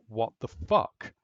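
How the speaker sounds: slow, drawn-out disbelief; baffled doctor. Retold or imitated. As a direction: stretch it out in total bafflement.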